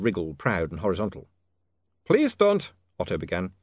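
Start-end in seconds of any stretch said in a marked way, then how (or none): 2.0-2.7 high, urgent warning; alarmed plea. A narrator's reading. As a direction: blurt out a nervous plea. Otto pleads suddenly.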